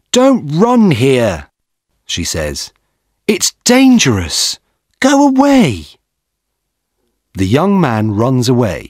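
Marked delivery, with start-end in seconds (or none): 0.1-1.5 scolding shout. A narrator's reading. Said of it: "Then a young woman shouts at him". 3.3-5.9 high, raised voice, driving him off; a young woman's mild scolding shout. A narrator's reading. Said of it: "Then a young woman shouts at him".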